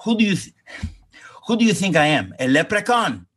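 mock an outraged father's retort; imitating father. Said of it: "And he says to me".

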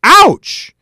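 mock ouch. Mock pain at JFK mention.

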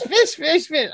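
high, loud vain cat voice; Cat from Red Dwarf. Acted. Fan imitates a sitcom cat's catchphrase, high loud voice.

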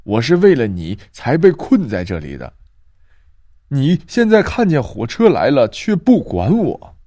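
put-on mildly indignant old woman; somewhat angry. Trapped grandma reproaching the girl, mildly angry. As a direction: reproach her for leaving you. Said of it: "张婆婆有些生气地说道".

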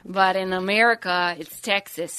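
slow, lightly put-on Canadian accent. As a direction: ease into a slow Canadian drawl. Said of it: "Your Canadian accent transitioned into a very slow-speaking".

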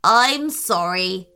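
low, slow tree voice; big old tree speaking slowly. Acted.

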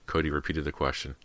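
plain reading voice

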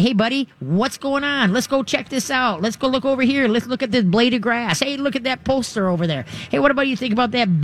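high cheerful coaxing; brightly steer the dog's attention elsewhere; upbeat redirecting. Shown as a demonstration. Leader redirecting a stressed dog, cheerful coaxing. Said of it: "be a good leader and say".

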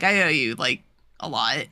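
low, earnest thanks; retold heartfelt admission, pitch dropping; imitated sincerity. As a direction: say it plainly and sincerely. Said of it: "Like, very sincerely".

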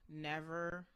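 ordinary delivery

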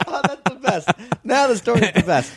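very high, tickled exclamation; delighted laughing. Real, not acted. Listener relishing the story's twist, laughing delight. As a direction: crow it through real laughter.

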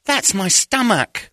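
put-on high, slow deadpan girl voice; imitating her flat correction; mock deadpan girl. The girl correcting Davy, a high slow mock deadpan.

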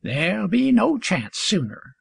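satisfied. A narrator's reading. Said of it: "in a tone of satisfaction".

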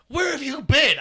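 high-pitched mock-mom question; exasperated mom. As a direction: imitate a worked-up mother, voice shooting up. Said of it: "And mom's like".

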